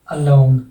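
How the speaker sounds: "अलोंग" with a light schwa first; careful "अलोंग", unstressed opening vowel; pronunciation demo. Shown as a demonstration. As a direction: set "अलोंग" apart as a model word. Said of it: "इसमें क्या हो गया".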